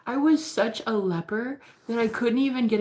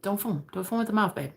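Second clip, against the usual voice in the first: humble reassurance; 5 dB quieter than usual. Retold or imitated. Humble crush calming his flustered admirer, soft mock reassurance. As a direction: gently talk someone down. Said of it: "so humble about it".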